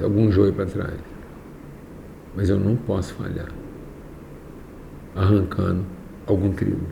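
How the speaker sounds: measured phrases with long pauses; very slow, deliberate. Real, not acted. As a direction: spell out a careful warning, phrase by phrase. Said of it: "Eu vou falar bem devagar".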